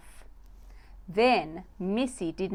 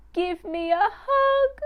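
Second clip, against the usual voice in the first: high, loud, eager plea; pleading little mouse; 11 semitones higher, 5 dB louder than usual. Acted. Little mouse Missy running in to beg her busy mum. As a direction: beg sweetly like a tiny mouse. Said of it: "she pleaded".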